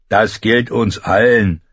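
slow, grave pronouncement; a lightly voiced man declaring; fat man calling. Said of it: "rief der dicke Mann". (langsam, ernst gerufen)

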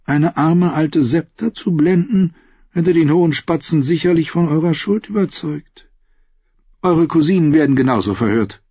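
lightly voiced cool queen mother; scheming queen mother. Cersei voiced by narrator. (kühle Königinmutter, dezent gesprochen)

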